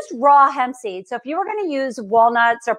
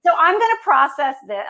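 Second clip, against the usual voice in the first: New Jersey accent, gonna run together; casual Jersey-accented gonna; 4 semitones higher than usual. Real, not acted. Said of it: "my Jersey accent".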